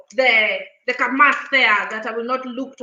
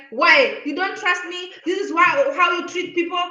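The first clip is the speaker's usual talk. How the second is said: loud indignant retort, pitch raised; offended cashier; 5 semitones higher, 4 dB louder than usual. Retold or imitated. Cashier scolding the customer at the till, indignant. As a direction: snap back like the insulted cashier. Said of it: "She really, she was talking like that".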